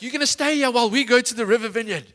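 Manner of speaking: high, loud mock telling-off; irritated. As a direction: play a fed-up parent laying down the law. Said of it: "I just got so irritated".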